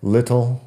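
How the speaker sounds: "little" with a hard, clear T; "little" as LIT-tul, T not softened; strong T. Shown as a demonstration. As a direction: pronounce the T of "little" fully. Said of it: "pronunciar la T fuerte".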